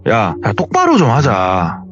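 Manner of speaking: mock angry scolding. 화난 이모부가 조카를 다그치는 말투. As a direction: uncle berating the boy, voice climbing in irritation. Uncle scolds nephew after kicking him.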